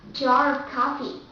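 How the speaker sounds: jar of coffee with American R; American accent. Shown as a demonstration. Teacher giving the last example, American accent. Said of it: "The first will be American accent".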